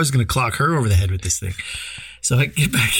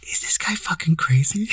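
voiceless, higher mock whisper; retold whisper; 6 semitones higher than usual. Husband whispering to his wife about Rob, voiceless mock whisper. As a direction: breathe it out like a secret to your wife. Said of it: "he whispered to Christine".

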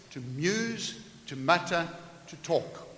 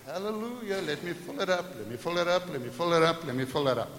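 devil's voice; 2 semitones higher than usual. Acted. Devil mocking in sermon illustration.

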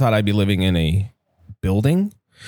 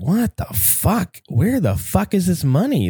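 retold panic; 10 semitones higher than usual. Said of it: "checking my bank account like".

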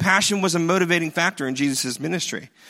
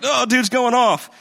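excited bystander; 5 semitones higher, 4 dB louder than usual. Pretend. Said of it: "I'd be like".

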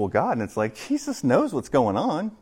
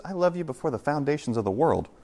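a quietly tender Jesus; 7 dB quieter than usual. Pretend. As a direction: say it like a lasting promise. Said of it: "he also says".

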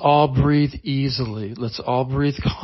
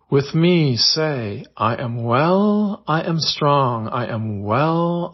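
guided meditation. Acted. Host guiding listeners through calm affirmations, in a soothing meditation voice. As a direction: ease the listener into calm, word by word.

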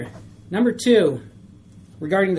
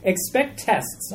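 very slow, each word weighed: "Expect tests"; slow emphatic rule; much slower than usual. Shown as a demonstration. Preacher stating rule one, slowly and deliberately. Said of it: "you can see it on your worksheets".

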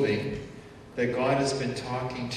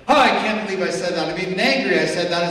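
loud, exasperated self-reproach, imitating; mock angry outburst; 5 semitones higher, 11 dB louder, faster than usual. Preacher voicing someone angry at themselves. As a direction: blurt it out in a hammed-up temper.

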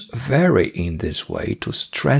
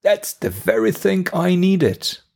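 pitched high with pleasure, a happy cry; delighted exclamation; 10 semitones higher than usual. Retold or imitated. Offered an Aperol Spritz on a summer evening, delighted high exclamation. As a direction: sound thrilled to get the drink. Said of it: "you could hear me say".

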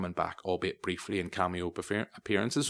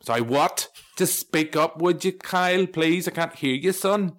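loud, high call to someone mumbling; mock exasperated shout; 8 semitones higher, 7 dB louder than usual. Telling whispering Kyle to speak up, loud mock exasperation. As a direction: raise your voice as if you can't hear him. Acts listener straining to hear whisperer.

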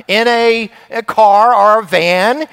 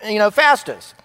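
put-on raised, higher voice hurrying the kids along; dad announcing the stop to the kids, raised voice; calling out to kids; 4 semitones higher than usual. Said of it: "I'm like".

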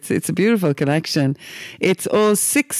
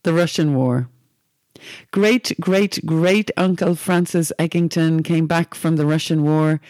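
unhurried poem reading with lightly raised voices for the family; calm reading aloud, slowing on the grim details. Acted. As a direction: read the poem to your guest, giving the quoted speech a lift. Reads the poem to him.

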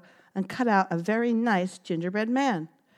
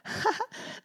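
proud giggle; 5 dB quieter than usual. Acted. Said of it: "was so proud".

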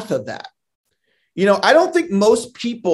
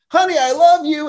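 called out toward the next room, pitched higher; casual higher call from the doorway; yelled to another room; 10 semitones higher, 4 dB louder than usual. Retold or imitated. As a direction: toss it to your wife through the house on the way out. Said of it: "I yell to my wife who's in the other".

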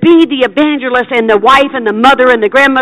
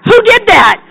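high, excited astonished cry; a stranger startled to find herself healed; amazed stranger; 10 semitones higher, 3 dB louder than usual. Retold or imitated. Stranger in the grocery store exclaims, high and amazed. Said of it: "and they go".

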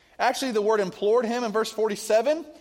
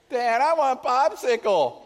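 put-on whining child; 4 semitones higher, 3 dB louder than usual. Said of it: "that annoying, begging, whining voice".

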